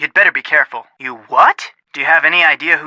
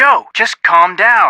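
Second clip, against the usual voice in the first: exasperated calming; 4 semitones higher, 5 dB louder, slower than usual. Acted. Exasperated at the hyperventilating friend.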